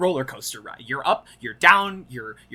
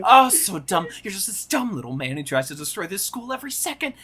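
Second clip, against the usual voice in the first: acted insult; 4 semitones higher than usual. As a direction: scoff then rattle off the insult. Cohost quotes the monologue.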